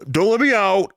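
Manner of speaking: high, curt mock order; imitating a testy hero; obnoxious tone. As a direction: give the order like a jerk. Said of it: "it's just his tone. Just, he's very".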